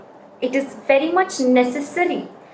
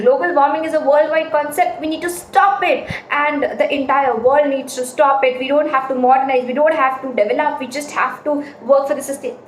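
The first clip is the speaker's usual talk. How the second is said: rushed no pauses. Shown as a demonstration. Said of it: "the audience will not understand".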